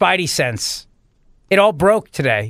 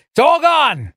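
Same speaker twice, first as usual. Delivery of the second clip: mock lament; 9 semitones higher, 3 dB louder, slower than usual.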